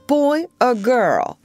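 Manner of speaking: put-on high, slow, small child's voice; child's hopeful question. Michael to his mother, not too hopeful. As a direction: ask it shyly, a little child. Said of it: "not too hopefully".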